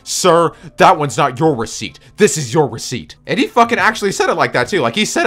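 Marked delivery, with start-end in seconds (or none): 0.0-3.2 mock-stern, slow and a bit louder; imitating angry cashier. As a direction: scold him like a snippy cashier. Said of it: "like, all anger and shit".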